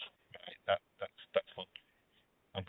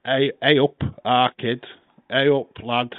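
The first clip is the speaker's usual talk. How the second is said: casual Yorkshire greeting; Yorkshire accent. Shown as a demonstration. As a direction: demonstrate Yorkshire, understated. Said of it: "I dare you to do Yorkshire".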